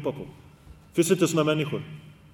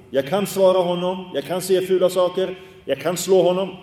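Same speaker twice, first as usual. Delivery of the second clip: slightly raised, insistent listing; louder, emphatic imagined inner voice; acted defiant self-talk; 3 semitones higher, 4 dB louder than usual. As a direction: list each option with rising force, as if tempted. Imagined self-talk when provoked.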